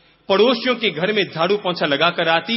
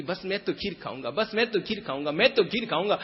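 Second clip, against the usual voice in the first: put-on a craving boy growing more eager; eager child; 3 semitones higher, 4 dB quieter, faster than usual.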